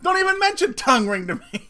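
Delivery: loud, high firm no to her daughter; stern loud refusal. Retold or imitated. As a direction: lay down the law loudly. Mom forbidding a tongue ring.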